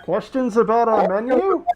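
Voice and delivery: high bright mascot voice; chirpy sales pitch from the mascot; cheery mascot. Acted.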